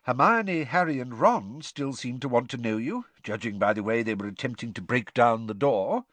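lightly voiced calm old headmaster; a hint of gentle, wry old wizard; Dumbledore's voice.

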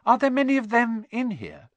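high, curious schoolgirl query; Hermione. A narrator's reading. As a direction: ask it inquisitively, pitched well up. Hermione asks Hagrid a question.

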